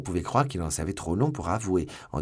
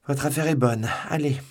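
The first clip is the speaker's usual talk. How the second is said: raised, louder curt verdict; threatening dismissal; 7 semitones higher, 5 dB louder than usual. A narrator's reading. Commissioner dismisses the doomed prisoner, threatening. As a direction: throw out a loud, high-pitched threat.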